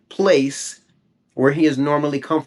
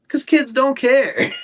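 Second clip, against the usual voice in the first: high, slow, breaking into laughter; real tickled chuckle at the end; amused laughing; 12 semitones higher, 3 dB louder, slower than usual. Real, not acted. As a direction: laugh your way through the line. Amused at daughter's carefree answer.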